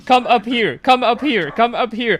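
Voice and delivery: insistent calling out. Retold or imitated. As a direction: shout it up to the teammate. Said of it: "we kept telling them".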